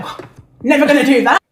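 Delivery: a laughing, dismissive never; laughing refusal. Retold or imitated. To friends who suggest talking, a laughing brush-off. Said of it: "I'm like".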